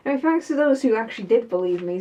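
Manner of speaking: a quick sarcastic jab, lightly sassy; spiteful and sassy. Real, not acted. Taking a parting dig at the doubters, mildly sassy. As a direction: toss off a snide thank-you. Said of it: "that was spiteful and sassy".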